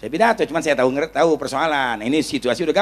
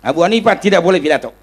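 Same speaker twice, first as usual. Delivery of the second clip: raised, official-sounding refusal; imitated stern ban; 5 dB louder than usual. Official forbidding the Kiai to speak, loud and stern. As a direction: lay down the ban loudly.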